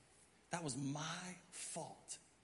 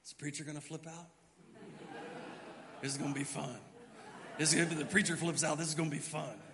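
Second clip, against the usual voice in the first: amused onlookers. Retold or imitated. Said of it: "they were all standing back like this going".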